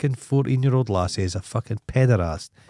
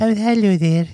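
Kate Moss voice; 12 semitones higher, 5 dB louder than usual. Retold or imitated. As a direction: send up a famous model's voice. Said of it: "the least sexy voice you've ever heard".

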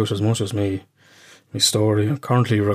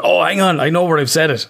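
high, louder sudden realization; excited realization; 7 semitones higher, 3 dB louder than usual. Retold or imitated. A man recalls his voice note, excitedly. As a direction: snap to it, remembering where. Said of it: "but I said".

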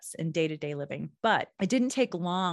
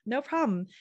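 fake sweet; 3 semitones higher than usual. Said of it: "they're like".

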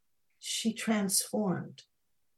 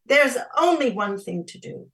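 loud, raised, determined thought; urgent resolve; 7 semitones higher, 10 dB louder than usual. A narrator's reading. Snow Princess deciding to act, urgent resolve. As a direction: declare it with urgency.

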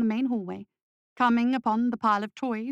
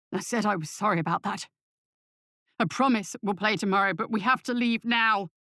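tearful, choked pleading; strangled sobs. A narrator's reading. Tearful father begging his son to leave, choked pleading. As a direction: plead as if holding back sobs. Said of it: "words came out in strangled sobs".

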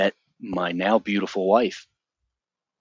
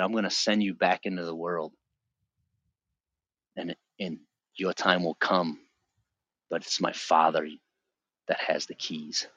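calm loving voice; 3 semitones lower, 5 dB quieter than usual. Retold or imitated. Voicing God gently.

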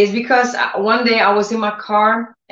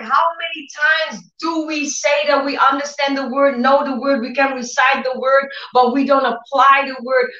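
excited prayer; 5 semitones higher than usual. Retold or imitated. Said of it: "And then I said".

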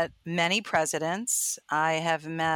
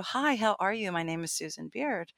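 stiff formal intro; 6 dB quieter than usual. Retold or imitated. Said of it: "I don't do".

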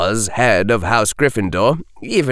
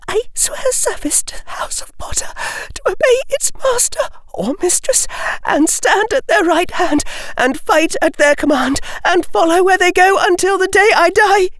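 in a rush. A narrator's reading. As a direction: blurt it all out in one breath. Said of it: "the words spilling out of her in a rush".

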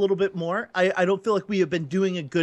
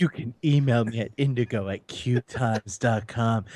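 creepy low voice; 9 semitones lower than usual. Pretend. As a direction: purr it like a creep. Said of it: "Oh, it's so creepy".

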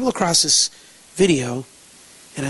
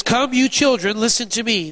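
raised, commanding call; firm, higher-pitched call to attention; authoritative summons; 5 semitones higher than usual. Acted. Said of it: "this is very authoritative".

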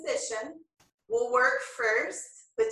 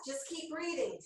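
soft reassurance; 4 semitones higher, 10 dB quieter than usual. Real, not acted. Soothing reminder during hard pose.

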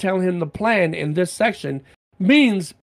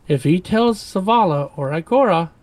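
through clenched teeth; 4 semitones higher, 5 dB louder than usual. Acted. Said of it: "Hideo said through clenched teeth".

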